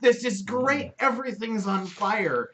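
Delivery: high, loud goblin voice, a slow gloating finish; gleeful goblin. Retold or imitated. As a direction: revel in the fire like a delighted goblin. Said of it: "They're just like".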